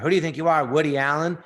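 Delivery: screaming dad. Retold or imitated. Dad scolding his son's ambition, retold mild yell. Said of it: "he's screaming at me".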